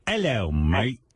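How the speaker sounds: mock British greeting; lightly put-on British accent. Shown as a demonstration. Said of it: "You can't do British?".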